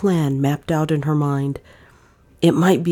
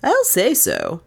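debonair; 4 semitones higher than usual. Acted. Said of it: "said Fleming debonairly".

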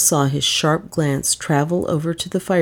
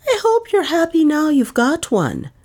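ironic; 12 semitones higher, 3 dB louder than usual. A narrator's reading. Maid needling the aunt about the detective, ironic. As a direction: draw it out with irony, pitched well up. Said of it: "in an ironic whisper".

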